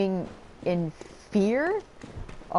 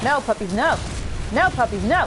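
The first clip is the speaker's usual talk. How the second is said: scolding the puppies; 4 semitones higher than usual. Real, not acted. Scolding attacking game dogs.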